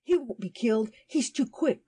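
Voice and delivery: put-on boyish triumphant retort; acted boy's triumph, excited. A narrator's reading. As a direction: crow it with confidence, rising high. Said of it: "said the boy triumphantly".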